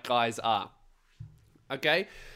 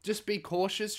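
ordinary delivery

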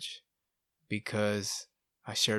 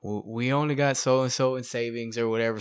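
wife flipping out; 3 semitones higher, 4 dB louder than usual. Retold or imitated. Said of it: "So she was flipping out".

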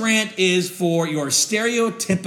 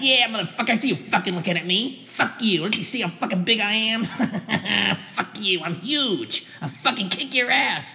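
mock gym bro threat. Skit bro threatens gym-goer.

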